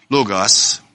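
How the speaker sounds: logos with a long first O and "hot" vowel second. Shown as a demonstration. Preacher repeating the pronunciation for listeners, logos said LOH-gahs. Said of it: "It'd be like a long O".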